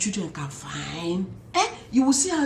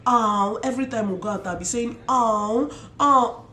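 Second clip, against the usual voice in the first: admiring oh. Retold or imitated. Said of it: "I kept saying".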